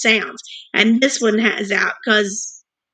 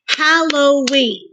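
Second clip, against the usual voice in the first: slow syllables; 3 semitones higher, slower than usual. Shown as a demonstration. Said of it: "let's look at the first word".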